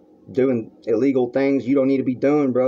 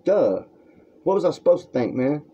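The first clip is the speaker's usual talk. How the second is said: higher, scornful duh; retold sass; 6 semitones higher than usual. Answering Matt's call, scornful and pitched up. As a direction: throw his question back as obvious. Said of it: "I'm like".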